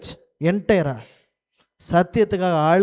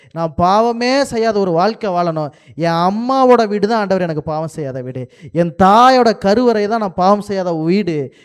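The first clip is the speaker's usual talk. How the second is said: earnest repentant plea to God, a touch raised; Solomon's pleading prayer; 3 dB louder than usual. Retold or imitated. Remorseful king begging God to take him home, pleading. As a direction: beg forgiveness as a remorseful king. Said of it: "சொல்லியிருப்பாரா?".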